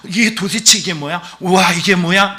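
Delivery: imitated amazement. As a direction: act out wide-eyed wonder at something never seen. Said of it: "놀란 거예요". (깜짝 놀란 듯 감탄하는 흉내)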